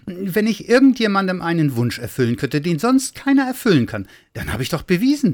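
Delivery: high, insistent little figure; earnest high-voiced pleading; eager little Santa. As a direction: argue it excitedly, pitched high. Little Santa argues his case.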